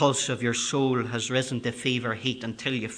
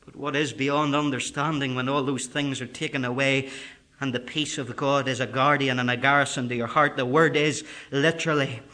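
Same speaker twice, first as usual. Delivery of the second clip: normal talking voice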